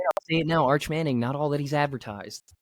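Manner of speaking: lagging robot voice; choppy laggy connection; robotic glitchy audio. Real, not acted. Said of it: "you sounded like a robot".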